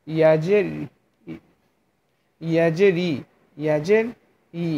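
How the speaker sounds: careful y-glide into "ই", mid-tongue against palate; ya articulation demo. Shown as a demonstration. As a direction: spell "ইয়াজের", then sound a palatal "ই". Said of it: "তার বরাবর ওপরে তালুর সঙ্গে লাগিয়ে".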